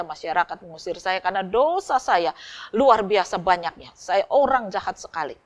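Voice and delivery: a broken man pouring out his sins; anguished confession. Acted. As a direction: cry out your shame to the pastor. Sinner's desperate confession.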